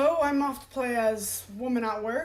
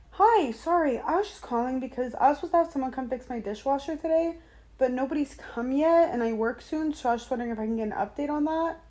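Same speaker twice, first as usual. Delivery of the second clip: high, polite customer service voice; sweet phone voice for a service call; 3 semitones higher than usual. Real, not acted. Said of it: "Don't judge my customer service voice".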